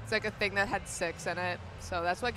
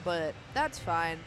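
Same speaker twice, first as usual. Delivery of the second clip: munching popcorn. Real, not acted. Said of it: "Sorry, I'm eating popcorn".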